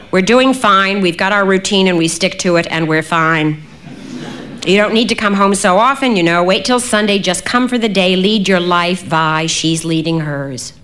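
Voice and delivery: firm, emphatic mother; a hint of a firm mother. A narrator's reading. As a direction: insist that all is fine. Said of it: "My mother said emphatically".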